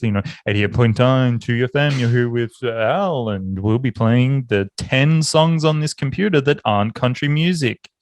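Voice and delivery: a lightly done radio presenter read. Shown as a demonstration. Mocking his own old community radio voice to a friend, lightly put-on DJ patter. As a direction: show how every DJ puts on the voice. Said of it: "no D J radio presenter talks like this".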